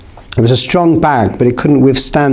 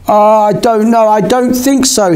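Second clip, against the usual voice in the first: stumbling over words; 8 semitones higher than usual. A narrator's reading. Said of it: "He stumbled over his words".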